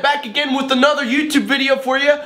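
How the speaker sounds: high, bouncy host voice; hyped YouTube dad. Acted. Dad hyping his kids for a beat video, high and bouncy. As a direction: sell the video like a cheeky dad.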